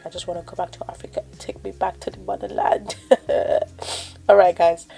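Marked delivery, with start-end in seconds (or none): 0.0-3.0 whisper. Pretend. Joking wish to go home.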